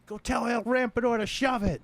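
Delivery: high, mocking silly voice; squeaky put-on voice. Mocking response, high far voice.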